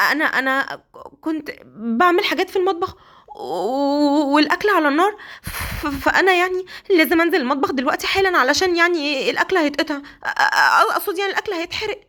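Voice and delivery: nervous wife fumbling for an excuse; flustered stammering. Acted. (سيليا متلخبطة بتتهته قدام جوزها)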